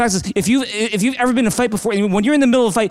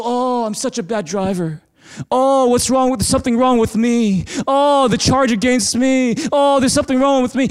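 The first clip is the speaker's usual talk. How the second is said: wallow in mock self-blame; mock self-pity; 3 semitones higher than usual. Mock self-condemnation over an old ticket.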